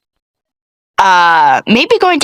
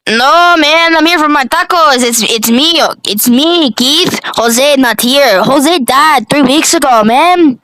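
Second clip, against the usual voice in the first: Keith voice; 6 semitones higher, slower than usual. Acted. Keith answers the cashier.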